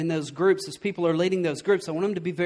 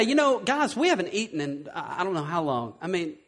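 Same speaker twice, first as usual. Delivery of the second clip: mock pitiful plea; 3 semitones lower, 5 dB quieter than usual. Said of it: "But I can get up here and say".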